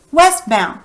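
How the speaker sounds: Westbound said normally, WEST the loudest syllable; stress on WEST. Shown as a demonstration. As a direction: lean on West in Westbound, bound lighter. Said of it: "Do you hear west is the loudest syllable?".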